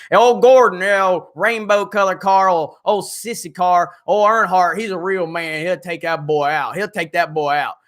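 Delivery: rowdy Southern racing fan hollering; redneck Jeremy. Acted. Streamer plays a redneck race fan for chat in a Southern accent. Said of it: "Jeremy Gordon".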